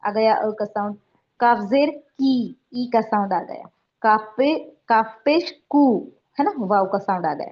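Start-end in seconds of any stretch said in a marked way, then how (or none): 1.4-2.6 slow teaching drill. Shown as a demonstration. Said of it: "अभी काफ पर मैं क्या करती हूँ". 4.9-6.1 slow teaching drill. Shown as a demonstration. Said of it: "अभी काफ पर मैं क्या करती हूँ".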